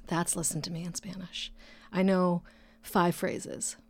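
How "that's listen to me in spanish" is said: breathy aside; whispering. Real, not acted. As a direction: drop into a whisper. Whispered aside after Spanish.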